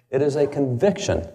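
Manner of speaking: "conviction" leaned on as the key word; stress on conviction. Shown as a demonstration. Speaker repeating Jefferson's words for emphasis, stress on "conviction". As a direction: repeat the quote with weight on "conviction". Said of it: "I would emphasize the word conviction".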